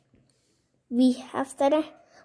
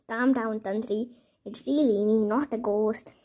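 lower, settled reassurance; calming; 3 semitones lower than usual. Acted. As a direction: talk them down from a fright. Soothing the frightened Tantri.

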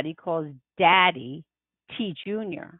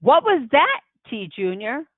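shaken Mama; 5 semitones higher than usual. Acted. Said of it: "Mama finally says".

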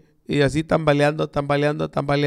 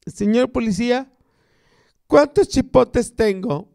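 put-on drunk man voice; 6 semitones higher than usual. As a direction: drag it out like a dazed drunk. Drunk asks the cop.

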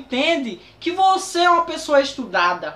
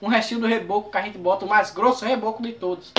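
1 copying her slang; 2 semitones lower than usual. Retold or imitated. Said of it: "na gíria dela também".

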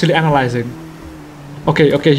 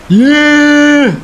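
excited shout; 9 semitones higher, 4 dB louder than usual. Real, not acted. Big win moment in race.

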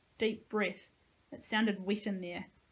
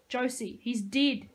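urgent mild shout, louder on dead; 3 semitones higher, 4 dB louder, slower than usual. Acted. Nico shouts to stop Josie, urgent. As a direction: call out to stop her. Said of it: "Nico shouted".

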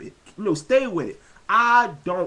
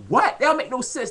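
1 incredulous; 6 semitones higher, 3 dB louder than usual. Retold or imitated. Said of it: "I'm like".

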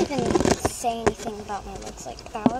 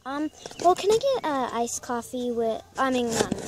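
famous singer act; 6 dB louder than usual. Pretend. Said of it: "I'm gonna first be" a famous singer.

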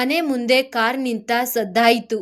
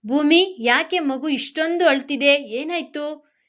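mildly worried, higher-pitched questions; concerned questioning; 4 semitones higher than usual. Acted. Mother-in-law asks about crying baby. (ಸ್ವಲ್ಪ ಆತಂಕದ ಪ್ರಶ್ನೆ)

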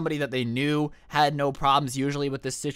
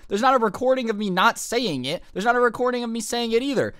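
indignant; 7 semitones higher than usual. Retold or imitated. Retold arguing with the dean.

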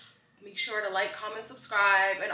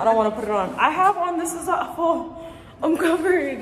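laughing protest; 10 semitones higher, 7 dB louder than usual. Real, not acted. Refusing shirt, laughing protest.

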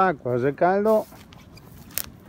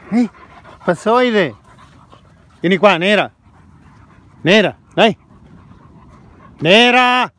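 calling a dog; 2 semitones higher than usual. Real, not acted. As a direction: call the dog by name, rising. (chiamare il cane a voce alta)

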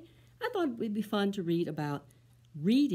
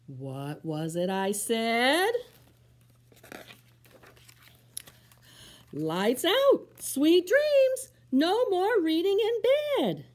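slower, louder firm order; stern mama; 9 semitones higher, 9 dB louder, slower than usual. Acted. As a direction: lay down the rule. Mama repeats strict order.

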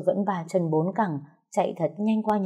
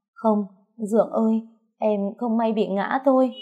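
higher, pleading little whimper; 4 semitones higher than usual. A narrator's reading. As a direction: plead tearfully with stepfather, pitched up. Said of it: "miệng thút thít nói". (thút thít van xin)

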